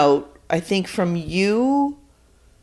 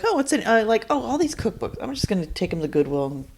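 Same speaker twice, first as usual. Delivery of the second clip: quoted self talk; 7 dB quieter, faster than usual. Retold or imitated. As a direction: mumble to yourself while rummaging.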